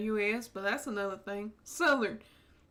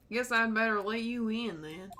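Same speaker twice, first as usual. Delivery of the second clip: a hint of a Southern cop teasing; Tennessee accent. Marshall teasing the detective, light Tennessee accent. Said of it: "I get to do that accent".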